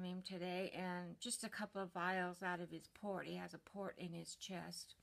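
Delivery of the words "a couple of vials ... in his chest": soft unvoiced aside; whispered aside. Real, not acted. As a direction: whisper the explanation.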